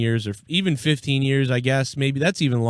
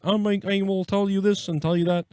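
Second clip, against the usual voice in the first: frog-voiced Obama; 4 semitones higher, 4 dB quieter than usual. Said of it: "he sounds like a frog".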